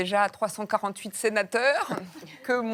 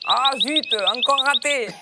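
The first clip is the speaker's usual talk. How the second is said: annoyed exclamation; 4 semitones higher, 7 dB louder than usual. Acted. Acted hunter missing shot.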